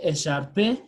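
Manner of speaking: écharpe said as "e-shar-peh" with the final E voiced; wrong, final E sounded. Shown as a demonstration. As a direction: sound the silent E at the end of écharpe. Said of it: "we don't say".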